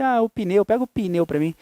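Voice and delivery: casual Rio native saying "pneu" as "pi-neu"; easygoing Rio pronunciation, "pneu" in two syllables; relaxed Rio speech. Retold or imitated. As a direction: imitate relaxed Rio talk, extra i in "pneu". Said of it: "não relaxadamente, como os nós naturais do Rio, que falam assim".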